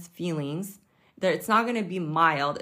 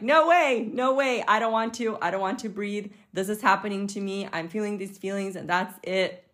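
mock panicked refusal; 3 semitones higher than usual. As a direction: play the panicking self refusing to breathe. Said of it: "I'm like".

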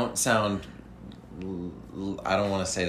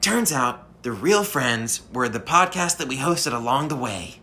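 lightly voiced anime hero; a hint of an eager anime hero; anime adventurer voice; 3 semitones higher than usual. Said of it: "I'm an anime adventurer".

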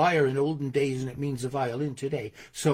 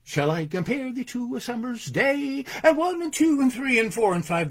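higher, metrical recitation counting out the beat; Shakespeare beat; 7 semitones higher than usual. Shown as a demonstration. Poet shows audience Shakespeare's five beats, rhythmic recitation. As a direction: lean on every beat like a verse count. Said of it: "The William Shakespeare beat is back".

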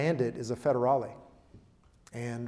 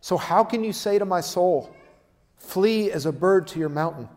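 indignant, raised-pitch preacher's question; indignant shock; 4 semitones higher, 4 dB louder than usual. Retold or imitated. Preacher voicing David's protest to his advisors, indignant. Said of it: "he can say in indignation and shock".

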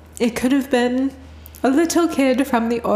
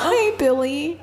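put-on tender greeting to child; 6 semitones higher than usual. Retold greeting to child spirit.

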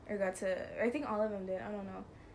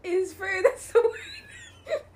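higher, louder, laughing outburst; laughing shout; 9 semitones higher, 6 dB louder, much slower than usual. Real, not acted. Shouting through laughter as she finally finds the word.

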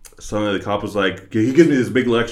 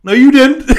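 high protest; 13 dB louder than usual. Retold or imitated. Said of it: "And I'm like".

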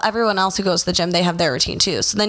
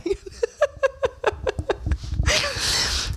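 high delighted laugh; 5 dB quieter than usual. Real, not acted. After her punchline.

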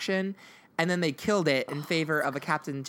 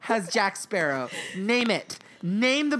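incredulous challenge; 6 semitones higher, 4 dB louder, slower than usual. Real, not acted. Challenging friends' parade claim.

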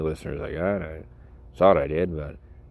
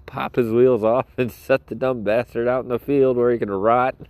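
louder, higher, laughing through it; cackling cartoon villain glee; gleeful mock menace; 5 semitones higher, 5 dB louder than usual. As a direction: relish the cruelty with a grin.

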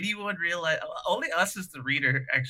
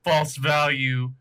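robot code voice; 4 dB louder, much slower than usual. Retold or imitated. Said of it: "he says a mutant code".

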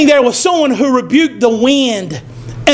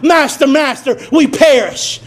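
cried out. Shown as a demonstration. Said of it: "let us learn to cry out".

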